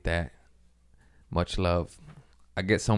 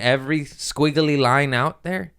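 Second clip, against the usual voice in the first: mock angry rant; 5 semitones higher than usual. Ranting at the pilot.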